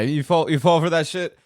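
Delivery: can't believe he fell for it; incredulous. Real, not acted. Streamer reacting in disbelief at the story, incredulous.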